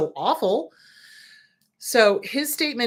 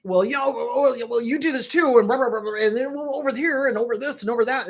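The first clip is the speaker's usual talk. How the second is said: lightly voiced, faster babbling narcissist; mocking narcissist; 3 semitones higher than usual. Mimicking a narcissist's word salad, mocking babble. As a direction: imitate word salad dismissively. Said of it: "they mix it up".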